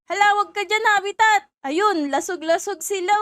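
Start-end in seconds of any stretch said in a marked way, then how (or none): 0.1-1.5 louder urgent warning call. Pretend. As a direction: shout a quick warning to a friend. Warning friend about tornado.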